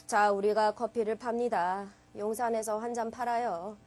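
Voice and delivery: low, soft, listless coffee seller; unconvincing sales pitch. Shown as a demonstration. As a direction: sell coffee with no energy at all. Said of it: "이런 식으로 말하면 와서 사시겠어요?".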